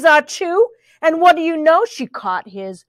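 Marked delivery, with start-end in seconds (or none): 0.0-0.7 quick high achoo; pretend sneeze. A narrator's reading. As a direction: toss in a perky little sneeze. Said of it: "and the sneeze".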